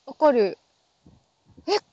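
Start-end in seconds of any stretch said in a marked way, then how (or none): 1.7-1.8 gushing cute squeal. Retold or imitated. Sudden gush over something cute.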